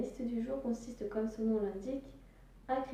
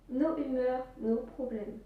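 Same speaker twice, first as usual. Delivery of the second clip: strong French accent; slower than usual. Real, not acted. Vlogger jokes about his own accent, thick French accent. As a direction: lay on a thick French accent on nos humeurs, nos problèmes. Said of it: "Notez-moi ce bel accent français".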